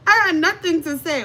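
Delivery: insistent emphatic repeat. Shown as a demonstration. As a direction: punch it out the second time. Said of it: "But I got nothing to say".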